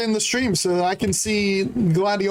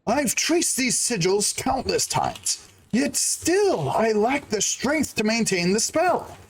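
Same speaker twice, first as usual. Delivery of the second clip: pretentious Eric; slower than usual. Acted. Streamer voicing Eric lamenting his weak spell, lightly pretentious. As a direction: drawl it out like a self-important mage, only a touch. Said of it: "I picture him sounding very pretentious".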